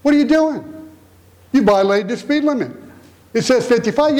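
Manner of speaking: high, indignant "wait a minute" to the policeman; mock protest to a cop. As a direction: play the speeder objecting, hammed up. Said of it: "you say".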